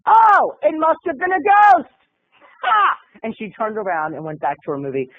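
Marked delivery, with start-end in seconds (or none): 0.1-3.0 mock sarcastic retort. Fur-coat woman disbelieving the denial, sarcastic. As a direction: imitate a scornful stranger, capped with a sharp "Ha!". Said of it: "And she goes".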